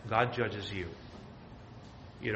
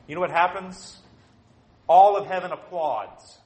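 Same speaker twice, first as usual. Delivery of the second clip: loud proclamation; 6 semitones higher, 10 dB louder than usual. Real, not acted. Preacher declaring heaven's verdict, ringing and loud. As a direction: proclaim it like a triumph.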